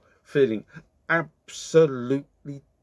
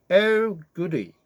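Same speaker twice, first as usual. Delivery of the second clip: gleeful wolf; 7 semitones higher, 3 dB louder than usual. A narrator's reading. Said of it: "he smiled".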